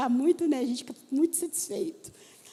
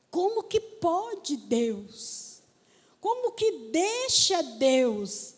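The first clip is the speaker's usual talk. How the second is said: pleading disbelief; much slower than usual. Retold or imitated. Woman questioning God after a hard week, incredulous plea. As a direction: re-enact an incredulous complaint.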